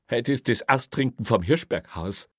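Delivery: high, choked-up confession; husky with despair. A narrator's reading. Desperate officer confesses his big plan to boss, voice thick. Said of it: "sagte er mit belegter Stimme".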